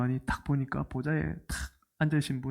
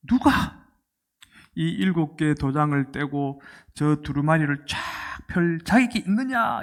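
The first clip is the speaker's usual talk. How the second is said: angel's proclamation. Retold or imitated. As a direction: imitate a mighty angel calling out. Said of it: "이렇게 외칩니다".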